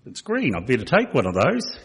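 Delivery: high, mock-innocent old man voice with a laugh; a light imitation of a simple old man; simple old Bill. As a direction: pitch it way up like a naive old fellow marvelling at freebies. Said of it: "and he goes".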